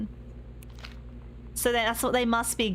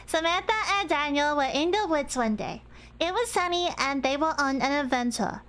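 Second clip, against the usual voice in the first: put-on baby voice; 2 semitones higher than usual. Shown as a demonstration. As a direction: read it like a little kid. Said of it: "I need to read this in the baby voice".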